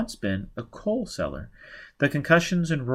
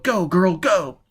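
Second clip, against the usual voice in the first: higher, louder hurry-up; urgent push; 7 semitones higher, 5 dB louder, slower than usual. Acted. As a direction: drive her to flee. Quat urging escape in raid.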